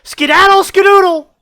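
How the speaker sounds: high, loud cackling witch incantation. Acted. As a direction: shriek it like a wicked witch. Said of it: "And the witch goes".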